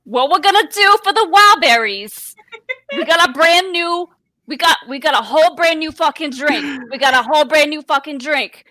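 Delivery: pitching a new drink in a mild, lightly done New York voice; New York accent. Acted. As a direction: sell it like a half-hearted New York hustler. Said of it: "In a New York accent".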